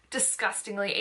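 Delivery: disgustingly with the first syllable leaned on a little harder; stress on disgusting. Real, not acted. Telling viewers how gross her unwashed hair is, a light stress. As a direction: give disgustingly a light extra push. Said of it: "I'm emphasizing the word disgusting".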